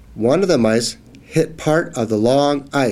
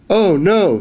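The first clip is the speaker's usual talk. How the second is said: mock alarm; 7 semitones higher, 4 dB louder than usual. Mouse in danger on tail.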